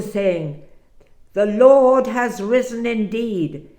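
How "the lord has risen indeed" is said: louder and higher, triumphant news; joyful proclamation. Acted. The eleven tell the returning disciples, jubilant. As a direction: announce it with joy.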